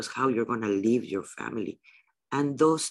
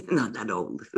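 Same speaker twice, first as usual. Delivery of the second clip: laughing through the words; light self-teasing chuckle on the words; laughing aside. Real, not acted. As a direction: toss it off with a laugh. Laughing at own age joke.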